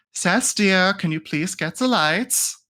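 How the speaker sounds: sassy cheeky tone. In a dimly lit room, she asks someone to get the lights: sassy voice. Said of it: "with a sassy voice".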